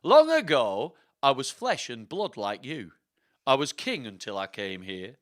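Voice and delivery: slow, theatrical put-on accent; Richard the third. Richard's spirit telling how he lost his crown, slow accented storytelling. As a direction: narrate as the dead king, deliberately and dramatically. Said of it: "that's gonna be his voice".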